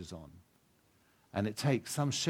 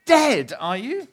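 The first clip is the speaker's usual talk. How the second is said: high, loud, trembling-fear plea to the dark; frightened pleading; 12 semitones higher, 8 dB louder than usual. Acted. Shasta pleads with an unseen thing in the dark, frightened and high. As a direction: beg the unseen creature to go away, terrified.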